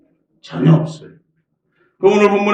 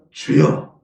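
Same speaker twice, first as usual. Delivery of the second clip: breathy whisper with no voice; much slower than usual. Shown as a demonstration. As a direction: hush it to a whisper. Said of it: "한번 따라합니다".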